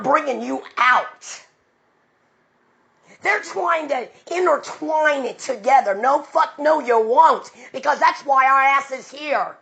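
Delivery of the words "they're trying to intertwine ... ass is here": high, loud, fired-up sermon; fiery preaching. Real, not acted. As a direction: preach it hard against false pastors. Preaching at full force.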